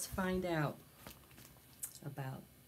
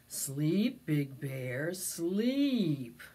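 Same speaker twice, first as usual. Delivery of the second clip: frowning; 3 semitones lower, 4 dB louder, much slower than usual. Acted. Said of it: "said with a frown".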